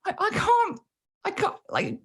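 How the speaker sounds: laughing through tears; choked up laughing. Real, not acted. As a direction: voice cracking, half laughing half crying. Overwhelmed recalling sad scene ending.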